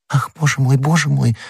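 high-pitched, understated dismay; horrified. A narrator's reading. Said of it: "ужаснулась госпожа Бонасье".

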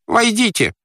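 squealed, high-pitched summons; Pyecraft. Acted. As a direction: call them in with a high, strained voice. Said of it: "голос Пайкрофта сказал". (визгливо, высоким голосом)

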